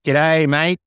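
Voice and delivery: cheery mock Irish accent; attempted Irish accent. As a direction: try an Irish accent on g'day mate. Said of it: "try and do my best to do an Irish accent".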